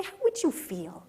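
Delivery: preacher chuckling at the congregation; laughing question. Shown as a demonstration. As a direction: chuckle it out slowly. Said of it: "Can you relate to this older boy".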